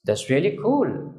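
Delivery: slow, drawn-out that's really cool; slow demo. Shown as a demonstration. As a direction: say it slowly, admiringly. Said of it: "আপনি যখন বলবেন".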